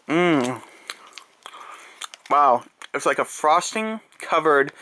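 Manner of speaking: talking through a mouthful of marshmallow; chewing while talking. Real, not acted. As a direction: mouth full, slow and chewy. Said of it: "sorry for my chewing noise".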